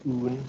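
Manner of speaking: "oon" said with a long Geordie oo vowel, like own without the w glide. Shown as a demonstration. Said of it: "we'll pronounce own as oon".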